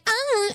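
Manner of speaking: high short mock moan; mock moan back. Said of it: "Tricky was like".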